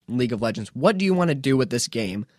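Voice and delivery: usual speaking voice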